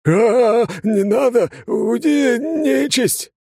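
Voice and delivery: very high, loud frightened yelp; panicked cry. Acted. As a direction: beg the demon to leave in terror. Father backing away terrified.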